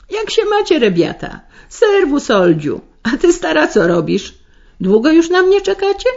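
brash, high-pitched hearty welcome; loud hearty greeting. A narrator's reading. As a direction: bellow hello across the table, high and brash. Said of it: "serdecznie i krzykliwie witać".

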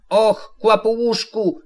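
high, slow cry of concern; high boyish exclamation of sympathy; calling out. A narrator's reading. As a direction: draw it out in a high, worried call. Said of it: "zawołał Krzyś".

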